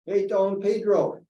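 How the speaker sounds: high, loud call down the street, drawn out; re-enacted long-distance shout; yelled greeting. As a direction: holler slowly to a friend far off. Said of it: "And I yelled out".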